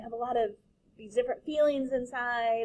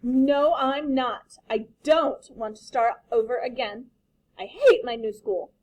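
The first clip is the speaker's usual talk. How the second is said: put-on protesting child; 3 semitones higher, 7 dB louder than usual. Daughter protesting to her father, loud whiny child. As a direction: whine it like an upset kid.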